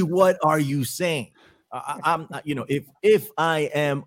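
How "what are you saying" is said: drawn out and pointed; slow, emphatic disbelief. Real, not acted. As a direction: press each word in disbelief. Incredulous at Kari Lake's threat.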